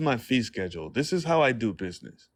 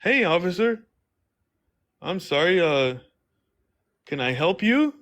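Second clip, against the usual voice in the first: bright, higher customer-service voice; sweet friendly greeting; 5 semitones higher than usual. Retold or imitated. Greeting the officer like a teller, higher and sweet. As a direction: greet him like a polite bank teller. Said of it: "Well, I'm just like".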